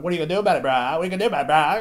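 mock a kid goading an adult with bleated bro; disrespectful kid. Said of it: "these fucking kids were so disrespectful".

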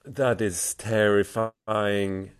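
slow stunned dread. Real, not acted. Player stunned, repeats line.

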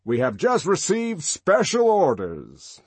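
high, loud and slow; eager to please, booming; deferential boom. A narrator's reading. Warden to Bernard, deferential boom. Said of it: "His boom was deferential".

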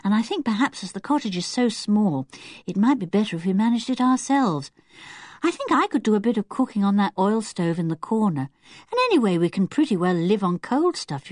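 lightly voiced, eager planner; practical young character. Child planning the cottage stay with friends, practical and eager.

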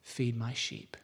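low, very soft, solemn words; tender. Retold or imitated. Jesus entrusting the preacher with his flock, low and tender. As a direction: say it gently, low and hushed. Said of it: "so tenderly".

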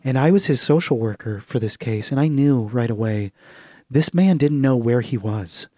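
a hint of an elderly witness; old social worker. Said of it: "she's like".

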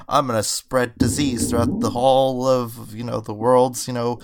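lightly voiced maniacal villain; a hint of a gloating bad guy; sneering panto villain. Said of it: "the most maniacal".

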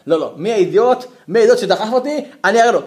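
hammed-up hold-me-back bluster; mock blustering threat. Man demanding who pushed him.

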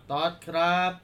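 chewing while saying name; mouth full. Real, not acted. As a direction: speak around a bite of food. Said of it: "ทุกคนมีอะไรอยู่ในปาก". (พูดทั้งที่เคี้ยวอาหาร)

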